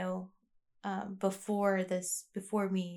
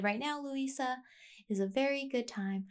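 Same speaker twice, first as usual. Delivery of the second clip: higher, lightly voiced therapist; 5 semitones higher, 3 dB quieter than usual. Quoting her therapist to listeners, lightly higher voice. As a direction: imitate the therapist's calm advice a bit higher. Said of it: "she has such a high voice in my head".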